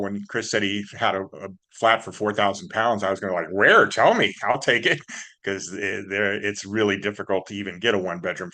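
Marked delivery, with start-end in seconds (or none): 3.5-5.0 eager loud grab at a bargain; excited. Retold or imitated. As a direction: jump at the offer, louder. Hears of a cheap flat.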